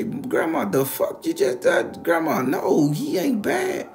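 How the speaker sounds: high, loud cry of protest, acted out; shocked protest. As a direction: plead with grandma in shrieking disbelief.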